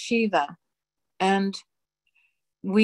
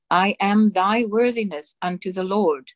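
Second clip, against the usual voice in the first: solemn dictation. Acted. Reading God's dictation aloud to the congregation, solemn and measured. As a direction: intone each phrase with grave authority.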